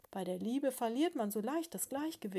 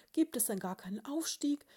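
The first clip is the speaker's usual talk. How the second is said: high, distraught calling; fassungsloser Ruf; 6 semitones higher, 4 dB louder than usual. A narrator's reading. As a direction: call down in disbelief, pitched up. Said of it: "rief die Haselmausbraut fassungslos". (fassungslos und hoch gerufen)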